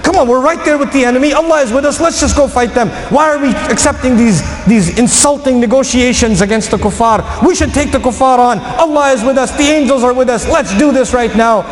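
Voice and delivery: rally them with a touch of anger; urgent, mildly heated appeal; frustrated urging. Acted. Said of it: "their anger was high and they said".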